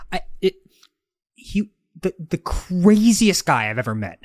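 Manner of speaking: halting build-up into mock exaggeration; hyperbole. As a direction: imitate a storyteller groping, then overselling. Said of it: "hyperbole that's the best where you're like".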